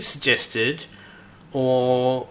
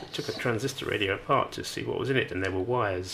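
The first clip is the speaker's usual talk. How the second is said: whispering; 5 semitones lower, 6 dB quieter, faster than usual. Real, not acted. Whispered childhood confession.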